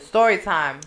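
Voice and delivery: half-hearted, low-key announcement; unexcited. Real, not acted. Reluctant host opening an embarrassing story, unexcited. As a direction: announce it without any excitement. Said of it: "she's not even excited about it".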